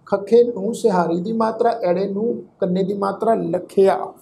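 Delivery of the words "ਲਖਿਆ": ਲਖਿਆ with a short i glide after kh; pronunciation demo. Shown as a demonstration. Teacher showing the congregation how to read the word, careful demo of ਲਖਿਆ. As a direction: model ਲਖਿਆ carefully, kh running into -ia. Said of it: "ਇਸ ਸ਼ਬਦ ਦਾ ਪਾਠ ਉਚਾਰਨ ਕਰਾਂਗੇ".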